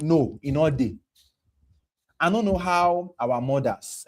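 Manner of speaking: ordinary talk, nothing marked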